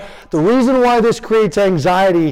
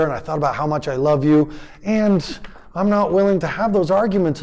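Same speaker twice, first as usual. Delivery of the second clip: healthy venting; 3 dB quieter than usual. Shown as a demonstration. Parent modeling healthy venting to child, softly. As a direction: share frustration gently, then soften. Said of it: "I was modeling healthy venting".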